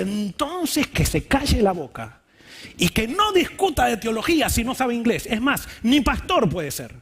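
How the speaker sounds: with authority. Retold or imitated. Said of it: "así con autoridad dice".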